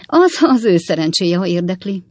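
wife's forceful comeback; emphatic. A narrator's reading. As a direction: lean hard on the opening words. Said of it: "mondta Potné nyomatékos hangon".

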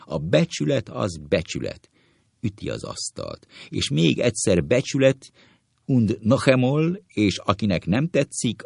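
mildly heated rant, table-pounding; a touch of blustering indignation; angry. Acted. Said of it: "Doktor Szamár dühösen".

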